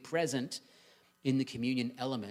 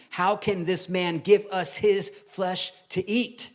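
slower, louder, higher protest; crowd's indignant challenge, pitched up and slowed; sharp argument; 6 semitones higher, 7 dB louder, slower than usual. Acted. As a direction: argue it back indignantly. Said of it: "They began to argue sharply".

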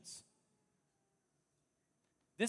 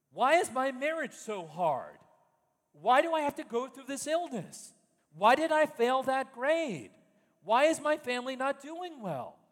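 raised, pleading why questions, louder and higher; hurt believer demanding answers from God, pleading; complaining believer; 4 semitones higher, 5 dB louder than usual. Acted.

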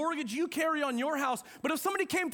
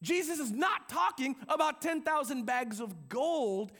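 normal talking voice

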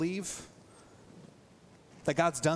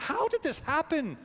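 higher, pained repeat of the question; anguished cry; 11 semitones higher than usual. Retold or imitated. Jeremiah lamenting to God, a pained high cry. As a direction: ask it again as if heartbroken. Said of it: "That's what Jeremiah said".

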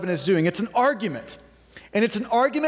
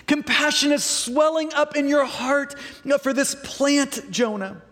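pleading God; 4 semitones higher than usual. Acted. God tenderly pleads with Jonah.

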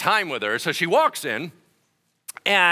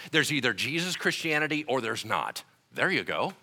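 ordinary talk, nothing marked

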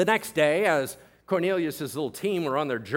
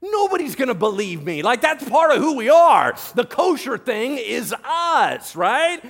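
loud, high-pitched ranting objection; agitated protest; 6 semitones higher, 5 dB louder than usual. Acted. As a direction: argue back heatedly as an appalled Peter. Acted Peter protests to God.

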